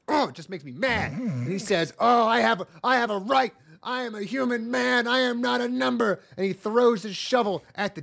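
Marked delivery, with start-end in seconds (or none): 2.0-6.2 raised, indignant mock protest; hammed-up defiant speech, higher and louder; uppity. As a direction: declaim it like a self-righteous little rebel. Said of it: "gets all uppity".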